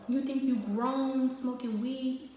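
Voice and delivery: retold angry challenge, drawn out; imitated going off. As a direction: imitate dad's scolding, word by word. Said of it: "He started going off".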